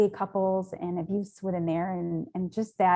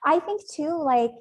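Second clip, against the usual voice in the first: high laughing start, a touch louder; 8 semitones higher, 3 dB louder than usual. Real, not acted. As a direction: laugh through the opening words. Laughing after emotional moment.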